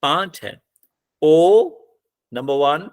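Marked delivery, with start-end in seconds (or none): 1.2-1.7 "ओ" as a loud, isolated syllable. Shown as a demonstration. Teacher counting syllables for the class, "ओ" sounded out alone. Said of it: "इस word में syllable कितने हैं".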